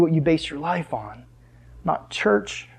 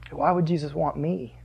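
softer hushed "Why would Jesus want me?", trailing off; listener's doubting thought; 2 semitones lower, 7 dB quieter than usual. Retold or imitated. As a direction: quietly voice the listener's self-doubt. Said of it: "thinking the same thing as Peter".

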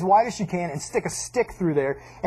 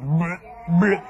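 dog retching; 3 semitones lower than usual. Retold or imitated. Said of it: "he was like".

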